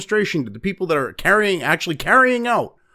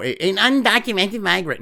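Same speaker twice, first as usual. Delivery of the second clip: sarcastic PC correction. Pretend. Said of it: "uh, I'm sorry".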